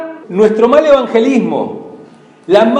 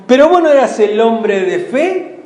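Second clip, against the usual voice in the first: lightly voiced sneering taunt; mocking taunt; 4 semitones higher than usual. Unbelievers mocking a believer in need, mild sneering taunt. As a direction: jeer at the believer who asked for help. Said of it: "Cuando uno a veces está pidiendo ayuda".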